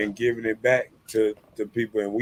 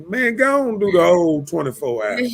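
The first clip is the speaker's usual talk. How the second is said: raised, higher voice telling them off; calling out fake folks, louder; mock rant; 9 semitones higher, 6 dB louder than usual. Podcast host voicing his rant at two-faced workers, raised and higher.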